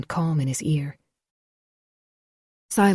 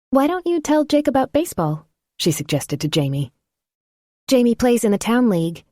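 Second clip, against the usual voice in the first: much higher, louder woman's voice; Phoebe, encouraging; 7 semitones higher, 3 dB louder than usual. A narrator's reading. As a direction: brightly nudge the boy to talk.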